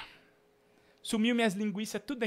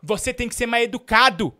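mock furious yelling; 3 semitones higher, 7 dB louder than usual. Host yelling at the caller he blames for stolen sausages, furious. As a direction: bellow at him like a robbed neighbour.

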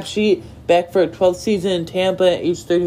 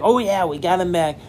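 emphatic cheer. Shown as a demonstration. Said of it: "saying it emphatic".

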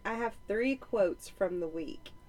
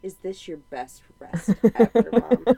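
put-on louder, hopeful child question; kid asking; 9 dB louder than usual. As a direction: ask it sweetly like a proud boy. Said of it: "he goes".

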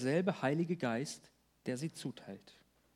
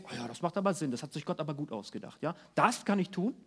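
smug inner voice; 2 semitones lower, faster than usual. Retold or imitated. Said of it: "Egal, ob du denkst".

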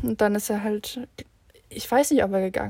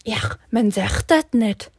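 slow, louder reprimand; scolding janitor; 5 dB louder than usual. Retold or imitated. Janitor scolds the students for their word choice, slow and stern. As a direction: lecture them like a grumpy janitor. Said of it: "Er nur so".

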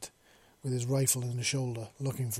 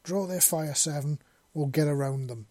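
yelled; 3 semitones higher, 4 dB louder than usual. Acted. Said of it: "Ven yelled".

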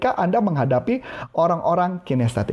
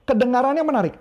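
lightly higher kedengarannya, falling end; mild imitation of a listener type; auditory talker; 5 semitones higher, faster than usual. Shown as a demonstration. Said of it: "Dia ngomong gitu". (tiruan ringan gaya auditori)

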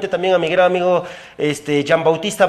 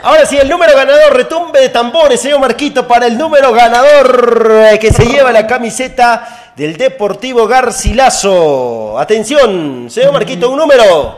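announcer build-up; 5 semitones higher, 6 dB louder than usual. Real, not acted. Hyping the winning number draw.

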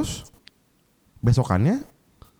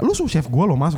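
retold heated reproach; 5 semitones higher than usual. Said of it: "gue panas lah".

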